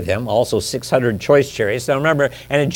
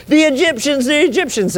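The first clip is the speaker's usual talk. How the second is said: high, loud alarmed cry; preacher voicing a terrified crowd; panicked screaming; 3 dB louder than usual. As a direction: shout it in mock panic. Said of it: "panicking, screaming, running".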